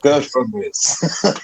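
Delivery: slow imitation of botched Welsh gone Indian; teasing, slowed bad Welsh accent; mock Indian-Welsh accent. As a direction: drag out his Indian-sounding Welsh attempt. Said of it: "you said it in, like, a Indian-y accent".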